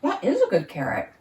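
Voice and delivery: talking while chewing; mouth full. Real, not acted. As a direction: say it through a mouthful. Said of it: "sorry to talk with my mouth open".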